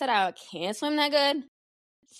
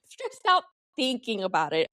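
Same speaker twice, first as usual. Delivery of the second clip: laughing through a repeat of "stressed out". Shown as a demonstration. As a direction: say it again, breaking into a laugh. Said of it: "I'm stressed out thinking about it".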